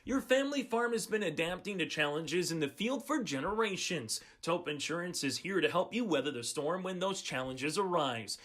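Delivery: smooth scripted radio sponsor read; polished announcer copy, phrase by phrase. Acted. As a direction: read it like a local insurance commercial. Reads a sponsor's insurance ad.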